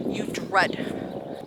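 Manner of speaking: whispered, leaning on dread; hushed dread; breathy emphasis. Shown as a demonstration. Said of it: "That's the word".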